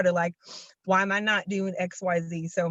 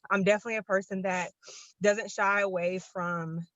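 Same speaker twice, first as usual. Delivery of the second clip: slightly breathless while moving around; talking while out of breath; 3 dB quieter than usual. Real, not acted. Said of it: "I'm out of breath".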